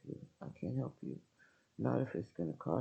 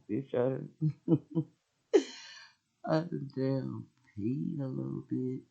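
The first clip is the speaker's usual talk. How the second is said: half-laughed mock scream; laughing holler; 4 dB louder than usual. Wife hollering at husband during the fight, laughing through it. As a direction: tell it while cracking up. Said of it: "I'm hollering and screaming".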